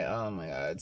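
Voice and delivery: low under-the-breath groan; muttered dread. Retold or imitated. Seeing the rude mom again, low dread. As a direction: sink your voice, dreading the meeting. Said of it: "I'm like".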